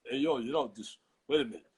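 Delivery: loosely voiced action-movie palooka; lightly done tough-guy hold-on; Sylvester Stallone. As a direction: street boxer impression. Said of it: "I got Sylvester Stallone".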